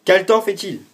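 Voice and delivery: high, loud question to the phone; loud question to Siri. Real, not acted. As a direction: ask the assistant loud and clear. Speaking a command to Siri.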